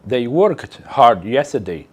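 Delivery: slow, careful English read; slow model sentence. Shown as a demonstration. Teacher reads example sentence slowly to class. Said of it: "podemos ver nessa frase".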